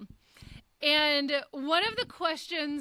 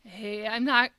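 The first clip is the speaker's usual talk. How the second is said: lower-pitched mock gloom; imitated sad friend; 4 semitones lower, 3 dB louder than usual. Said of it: "he was really sad".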